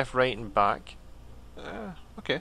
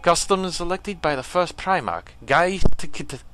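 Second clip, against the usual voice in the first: forceful, raised alien-warrior voice; painful character voice; 3 semitones higher, 4 dB louder than usual. Acted. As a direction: put on a strained, loud warrior voice. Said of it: "trying to give him a voice".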